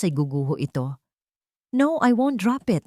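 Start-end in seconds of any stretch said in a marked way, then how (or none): 1.7-2.8 higher, pushed-back refusal; insisting, heated. Acted. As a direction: throw the refusal back at him. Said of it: "hit ni Katrina".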